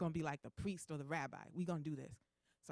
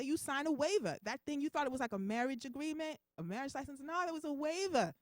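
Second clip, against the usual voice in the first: a hint of an exasperated parent, pitch rising as it builds; scolding; 5 semitones higher than usual. God scolds the patient for trusting a surgeon, exasperated.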